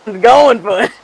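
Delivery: loud raspy rasp. Acted. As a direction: scrape it out with a raspy throat. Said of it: "I hate doing this raspy voice sometimes".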